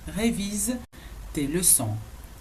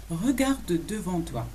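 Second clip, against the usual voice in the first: "Regarde devant toi" slowly, each word separated; measured, drawn-out language demonstration; slow model; much slower than usual. Shown as a demonstration. Teacher models "look ahead" for learners, slowly.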